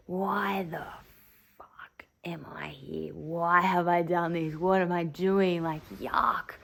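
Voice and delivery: whispered, tearful despair while vomiting; crying whisper. Retold or imitated. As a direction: sob out these questions under your breath. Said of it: "I'm just crying".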